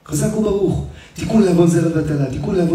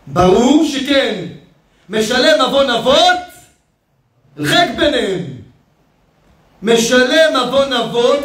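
raised, slow preacher's chant; preaching; 6 semitones higher than usual. Acted. Rabbi preaches to the crowd, raised and chanting. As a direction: preach it out, drawing the words.

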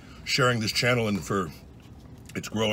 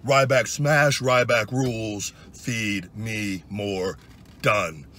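wrestler catchphrase; 4 dB louder, much slower than usual. Retold or imitated. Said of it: "I'd go".

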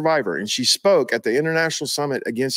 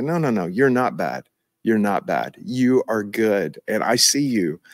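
tender fatherly reassurance; 4 semitones lower than usual. Shown as a demonstration. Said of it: "that's the voice of the Father towards them".

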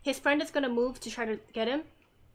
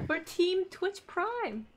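laughing; 7 semitones higher, much slower than usual. Real, not acted. Laughing about the team.

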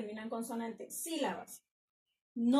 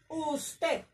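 "usted" higher, split as us-ted; syllable by syllable; 4 semitones higher than usual. Shown as a demonstration. Teacher giving an example of closed syllables, syllable by syllable. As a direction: separate the two beats of "usted".

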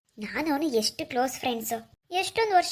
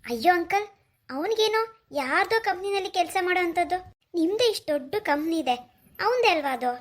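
higher, exasperated protest; indignant complaint; 4 semitones higher, 3 dB louder than usual. Acted. Woman complaining to uncle about his son's job, indignant. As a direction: scoff at the absent son's choices. Complaining that son ignores family company.

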